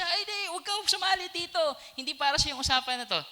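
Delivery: high, fast shooing rebuke; scolding crowd. Acted. Crowd telling the beggar to keep out, high and fast. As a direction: brush him off, high and quick. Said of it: "sinaway siya".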